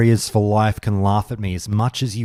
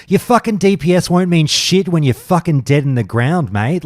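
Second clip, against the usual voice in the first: heated rant; 6 semitones higher than usual. Real, not acted. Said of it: "that's my rant".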